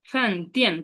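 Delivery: টিয়ান with a sharp falling fourth tone. Shown as a demonstration. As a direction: drop the pitch hard on টিয়ান. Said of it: "four টোনকে বলে falling tone". (টিয়ান শব্দে নিচে নামা চতুর্থ tone)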